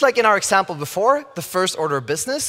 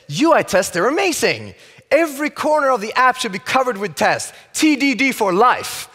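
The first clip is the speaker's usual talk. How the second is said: mock enthusiast; 4 semitones higher than usual. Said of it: "and they feel like this".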